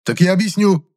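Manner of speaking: growled threat. A narrator's reading. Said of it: "я опять рыкнул". (грозный рык)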